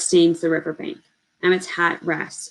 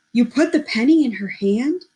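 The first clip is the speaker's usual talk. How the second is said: shocked; 6 semitones higher, 4 dB louder than usual. Acted. Simeon shocked, disbelieving.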